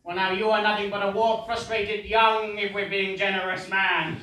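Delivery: smug, building to a loud yell; gloat, then shout the last words. Acted.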